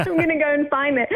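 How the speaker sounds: amused, breaking into laughter; laughing. Real, not acted. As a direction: talk through a giggle. Amused while retelling her own plan.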